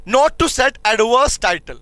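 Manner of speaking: very slow, word by word for note-taking; slow dictation. Shown as a demonstration. Teacher dictating slowly to students taking notes. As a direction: spell it out slowly so students can write. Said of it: "इनको ऐसे पढ़ना है".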